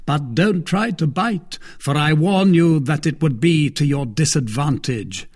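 a smug, teasing brother-in-law; Lord de Winter. Acted. Baron threatening.

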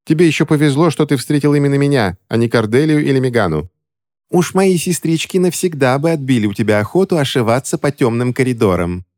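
высокий насмешливый голос; поддразнивая, сверху вниз; Ремора Кэндалл. A narrator's reading. Ремора говорит с мальчиком. (насмешливая ведьма говорит с мальчиком)

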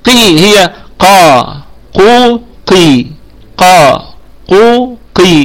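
isolated syllables قا، قو، قي with a heavy uvular ق; three-vowel qaf drill. Shown as a demonstration. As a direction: slowly drill ق through long a, u, i. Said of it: "لابد أن آتي بالثلاث حركات".

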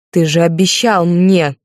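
slow, pleading cry of betrayal. Acted. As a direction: call him out on the broken promise. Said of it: "закричала я".

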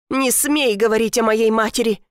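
barking back. Acted. Stepdaughter snaps at the stepmother, loud. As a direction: bark it at her, defending your mother. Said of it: "рявкнула".

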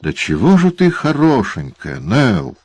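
syrupy leering welcome; gushing dwarf. Acted. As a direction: overdo the delight at seeing her. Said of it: "воскликнул Квилп".

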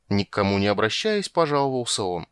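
usual speaking voice

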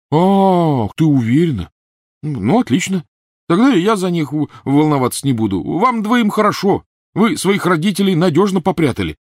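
high, loud sneering rage; sarcastic fury. A narrator's reading. Ron mocking Hermione and Harry, loud bitter sneer. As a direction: lash out with sarcasm.

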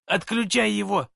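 high frantic command; yelling. Acted. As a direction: bark the order. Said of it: "заорал Шамес".

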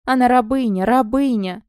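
mild frantic yell. Acted. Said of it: "вопил Салон".

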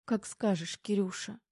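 high, soft, teary voice; small high sobbing reply; tearful sob. A narrator's reading. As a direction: agree through tears with a smile. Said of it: "всхлипнула Тома, улыбаясь сквозь слёзы".

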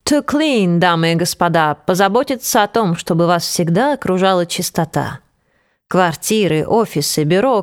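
deadpan flight attendant announcement. Acted. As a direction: recite like a cabin crew safety speech. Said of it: "голосом бортпроводницы с самым серьёзным видом".

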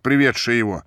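ordinary delivery

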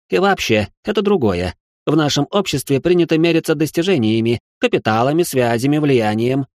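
выше, чопорно и обиженно; отстаивай честь высшего общества; возмущённый аристократ. A narrator's reading. Aristocrat Richard, indignant. (аристократ Ричард спорит с Салихом, выше и обиженно)

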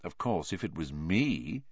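soft, sly murmur; quietly. Acted. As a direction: say it quietly, baiting. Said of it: "he said quietly".

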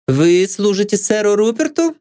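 high, stately question; haughtily. A narrator's reading. Maid Anne questions the detective haughtily. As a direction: ask it grandly. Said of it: "величественно спросила Энн".

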